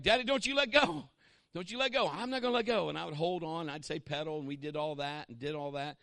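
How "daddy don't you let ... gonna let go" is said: put-on high, loud child pleading; scared little girl. Little daughter on the bike begs her father to hold on, high and pleading. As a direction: beg like a frightened little daughter. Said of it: "she'd be looking back".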